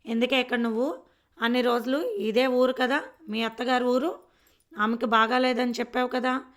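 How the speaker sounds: loud, nagging village mother; scolding old mother. Acted. Old mother loudly scolding Bhulakshmi for staying. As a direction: bark the questions at her like a cross mother.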